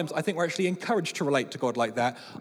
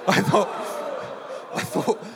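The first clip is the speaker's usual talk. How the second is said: laughing while speaking; 5 semitones higher, 5 dB louder than usual. Real, not acted. Laughing at daughter's retort.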